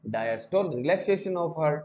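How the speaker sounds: relaxation of heart drawn out very slowly; slow definition. Shown as a demonstration. Teacher defining diastole for students, very slow. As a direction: stretch relaxation out for note-taking. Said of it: "teacher spelling out definition".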